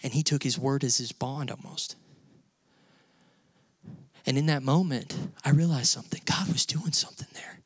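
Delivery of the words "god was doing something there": whispered, voiceless and awed; hushed whisper. Real, not acted. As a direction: let the realization drop to a whisper. Realization told in hushed voice.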